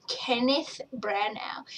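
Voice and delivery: whispered like a sacred secret; awed whisper. Real, not acted. Finding her idol's name in the credits, awed whisper. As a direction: breathe the name in a hushed whisper.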